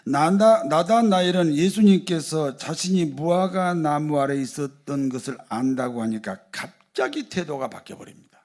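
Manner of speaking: normal talking voice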